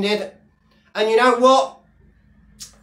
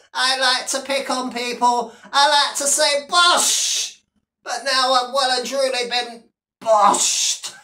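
mock self-pity; 2 semitones higher than usual. Imitating the beaten Sheriff, mock whining. Continues mocking impression of Sheriff.

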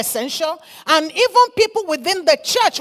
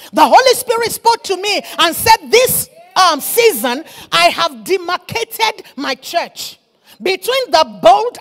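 loud, emphatic sermon delivery with punched key words; fiery preaching; 3 semitones higher, 5 dB louder than usual. Acted. Preacher urging the church to carry a fire, fiery preaching. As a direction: preach with urgent force.

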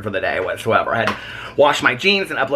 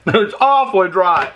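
louder, slower, laughing through awfully; laughing repeat; 5 semitones higher, 4 dB louder than usual. Real, not acted. Vlogger laughing at Peter's dry stuffing, amused repeat.

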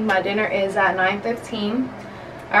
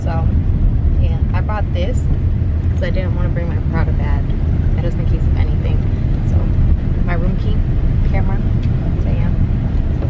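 talking through a retainer; speech slurred by a retainer; wearing a retainer; 2 semitones lower, 6 dB louder than usual. Real, not acted. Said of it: "that's why I'm talking weird".

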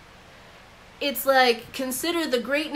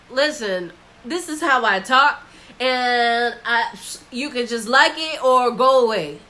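defiant arrogance; 5 dB louder than usual. Retold or imitated. Arrogant modern narrative voiced.

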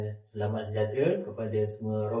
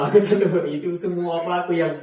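imitating friend; 3 semitones higher, 4 dB louder than usual. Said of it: "dia cakap".

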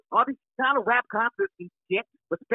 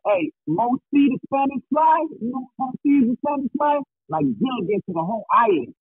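muffled caller on the line; muffled phone; 3 semitones higher than usual. Real, not acted. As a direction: sound like a bad phone line. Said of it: "I can barely hear him".

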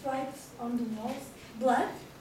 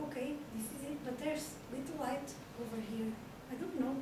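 nervous hush; 7 dB quieter, faster than usual. Acted. Alone in a dark house.

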